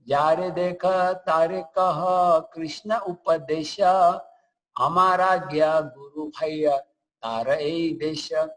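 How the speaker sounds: slow, measured chant-like recitation; verse recitation. Acted. Lecturer quoting Lord Chaitanya's famous instruction, slow solemn recitation. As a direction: recite the sacred verse slowly and deliberately.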